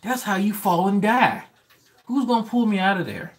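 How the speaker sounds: panicked refusal, voice way up; high-pitched protest. Retold or imitated. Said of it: "I was like".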